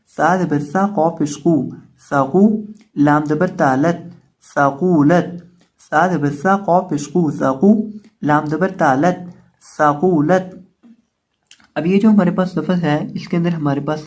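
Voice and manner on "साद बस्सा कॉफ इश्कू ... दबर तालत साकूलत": spelling recitation drill. Shown as a demonstration. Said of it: "spelling drill".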